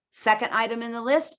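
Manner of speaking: "list" rising at the end; list intonation. Shown as a demonstration.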